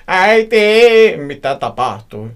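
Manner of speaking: very high, loud drawn-out cry; shrieked, panicked question; hysterical scream. A narrator's reading. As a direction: scream for mother, stretching the word. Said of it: "Kiljuin hysteerisenä".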